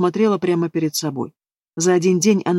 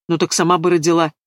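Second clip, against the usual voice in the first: snapping. Acted. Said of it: "Вдруг огрызнулся Сашка".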